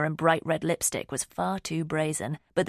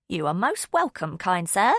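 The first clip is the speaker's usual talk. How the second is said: playful put-on Cockney accent, slightly louder; fake Cockney accent; 2 semitones higher, 4 dB louder than usual. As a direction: ham up a cheeky Cockney accent. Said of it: "in a fake Cockney accent".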